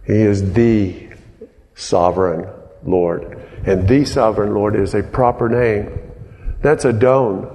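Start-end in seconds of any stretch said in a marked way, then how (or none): none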